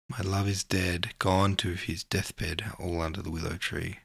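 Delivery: slow, gentle poem recital; poem reading. Acted. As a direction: let each line hang, slowly. Reads poem aloud to chat.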